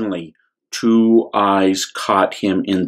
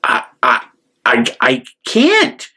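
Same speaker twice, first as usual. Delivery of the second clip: stammering; 2 semitones higher than usual. Acted. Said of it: "started to say".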